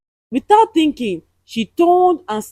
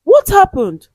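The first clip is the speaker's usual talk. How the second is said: frightened high cry; scared shaky question; voice shaking; 8 semitones higher, 7 dB louder than usual. A narrator's reading. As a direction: ask it loud with fear shaking through. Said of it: "her voice shaking".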